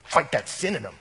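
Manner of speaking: lightly voiced eager confronter; a hint of a gung-ho dude voice; mock zealous bro. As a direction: parody the pushy guy egging you on. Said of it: "people that's right now going".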